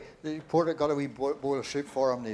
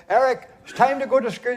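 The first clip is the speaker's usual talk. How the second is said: calling up; 7 semitones higher, 8 dB louder than usual. Acted. Mother shouting upstairs.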